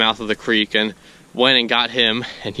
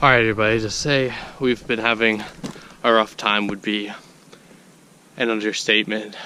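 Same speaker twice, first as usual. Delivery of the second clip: out of breath. Real, not acted. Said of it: "Sorry, I'm so out of breath".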